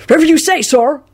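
high, eager deference; respectful. A narrator's reading. Scruffy wizard obeying his host, respectful. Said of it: "replied respectively and tipped his hat".

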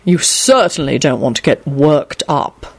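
slow, grave and sincere. Acted. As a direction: soothe him with grave sincerity. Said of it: "Quentin replied gravely".

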